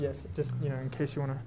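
muffled through a face mask. Real, not acted. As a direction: talk muffled behind a mask. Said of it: "who is also wearing a face mask".

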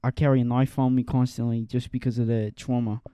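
put-on British-Australian mash-up accent; muddled British accent. Joking monologue about life on the streets, muddled British accent. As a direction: tell it as a street tough in a bad British accent. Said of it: "that accent sounded like a British".

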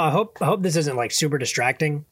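talking while chewing popcorn; words around a mouthful of popcorn; munching popcorn. Real, not acted. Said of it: "I'm munching on popcorn right now".

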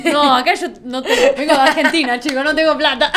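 loud, laughing through the joke. Real, not acted. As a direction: laugh out the excuse. Joking she is broke, laughing.

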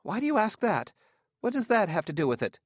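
tight, high, fast and tense; tense voice, rushing the questions. A narrator's reading. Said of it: "said in a tense voice".

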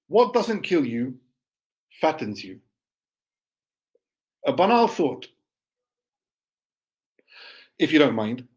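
measured poetry recital with long pauses; poem reading. Acted. Poet reciting own verse to listeners, poem reading. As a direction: read it line by line, leaving space.

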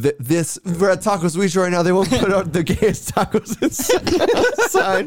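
high, laughing mock voice; hammed-up worried staff member; mock restaurant staff. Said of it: "they're like".

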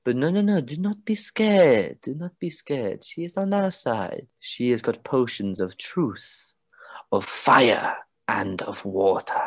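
calm the nervous crowd; a hint of a reassuring ringmaster; reassuring spokesperson. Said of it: "He goes".

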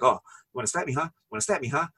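mock taunting challenge. Finn Balor retold daring Cameron Grimes to slap him, mock taunt. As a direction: tease him like a wrestler daring a punch.

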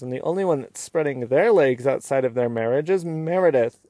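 mock a badly faked shock, stretching the key words; forced indignation. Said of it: "in a very forced way is like".

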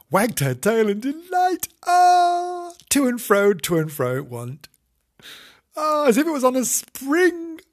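high, bright sing-song; delighted singsong telling. Acted. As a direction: read it like a bouncy rhyme.

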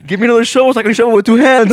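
giggling while quoting a silly request; fast, laughing retold line; fast laughing quote. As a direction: rush it out, laughing. Retelling Julio's request, laughing.

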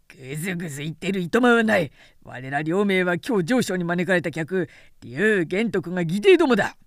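rough impatient warrior; impatient shout. Acted. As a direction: brush him off hurriedly. Impatient brother at the gate.

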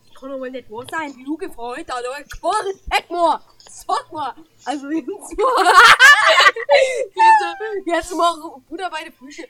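Oma-Stimme. Acted. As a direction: rant like an outraged old lady. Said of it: "Paul ist die Oma". (empörte Oma, laut und langsam)

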